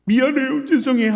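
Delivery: put-on high, pleading child's voice; apologising daughter. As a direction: imitate a little girl's tearful sorry. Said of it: "하는 딸아이를 보면서".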